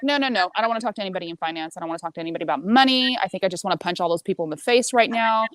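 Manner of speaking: ranting complaint, mildly heated; fed-up venting, retold; retold bitching. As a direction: replay an angry refusal, punching key words. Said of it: "I was bitching to him a little bit".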